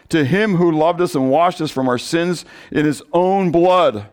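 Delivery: measured read-aloud of a Bible passage; scripture reading. Acted. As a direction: read the verses steadily to the congregation.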